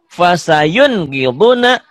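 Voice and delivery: fasayun gilbuna spoken slowly and clearly; slow recitation. Shown as a demonstration. Teacher modelling fasayun gilbuna for the class.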